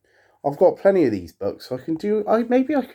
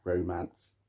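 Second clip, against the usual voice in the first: soft breathy whisper; 6 semitones lower, 14 dB quieter than usual. Acted. Repeated title whispered softly.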